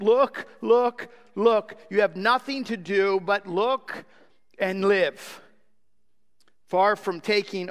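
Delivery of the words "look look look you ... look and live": mock preacher's shout, urging the sinner; retold shout. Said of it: "he literally shouted".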